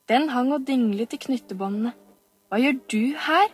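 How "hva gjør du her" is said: put-on higher, louder boy's demand; a boy catching a girl spying. Oliver to Camilla, a sharp demanding boy. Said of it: "spurte han".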